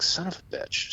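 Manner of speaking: hushed, breath-heavy retold curse; retold exasperation, barely voiced; muttered curse. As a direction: curse softly under your breath. Muttered reaction while up in stand.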